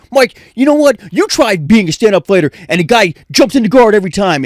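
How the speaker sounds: half-hearted imitation of an angry fighter; imitating Chuck yelling at him; mild mock yell. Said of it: "started yelling at me".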